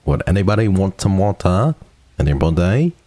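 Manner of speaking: exaggerated British pronunciation; British accent. Joking offer to everyone, put-on British accent. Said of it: "he's British".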